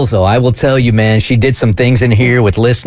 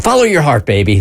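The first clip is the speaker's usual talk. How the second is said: put-on Jamaican accent; 3 semitones higher than usual. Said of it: "in her Jamaican accent".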